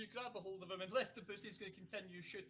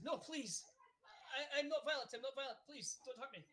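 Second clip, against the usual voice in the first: put-on Russian accent; 4 semitones higher than usual. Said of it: "He does now".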